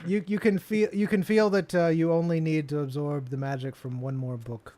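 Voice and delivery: a hint of the bookkeeper while instructing. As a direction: lightly keep the shopkeeper's voice. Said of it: "Why are you saying it in his voice?".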